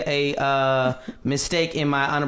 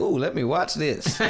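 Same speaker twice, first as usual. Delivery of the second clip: titillated; slower than usual. Retold or imitated. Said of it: "I'm in Chicago like".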